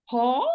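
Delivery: Ta with a puff of breath; wrong aspirated Ta. Shown as a demonstration. Teacher repeating the mistake to warn students, breathy Ta. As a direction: let breath flow through the Ta. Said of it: "flow of breath. No".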